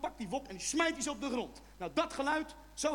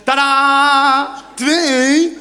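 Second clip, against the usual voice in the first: mock tadaa; 2 semitones higher, 21 dB louder, much slower than usual. Presenting kittens to girlfriend.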